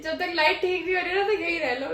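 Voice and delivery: quoting mom through a laugh; laughing retelling. Retold or imitated. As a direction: chuckle while passing on mom's words. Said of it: "कह रहे". (हँसते हुए माँ की बात दोहराना)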